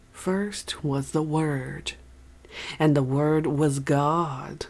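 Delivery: slow, weighted stress on Word each time; quoting scripture slowly, Word emphasised over God. A narrator's reading. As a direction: lean hard on Word, touch God lightly. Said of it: "put more emphasis on the word word".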